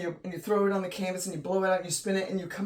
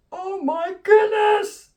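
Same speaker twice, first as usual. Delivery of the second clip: very high, loud, slow exclamation; overjoyed squeal; 13 semitones higher, 10 dB louder, much slower than usual. Real, not acted. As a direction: squeal it out in amazed delight. Overjoyed at her own painting.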